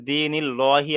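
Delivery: দিনিল্লাহি with a heavy "lo", as "dee-nil-LO-hi"; thick "lo" in place of "laa" in দিনিল্লাহি; wrongly rounded pronunciation. Shown as a demonstration. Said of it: "আর বলা যাবে না".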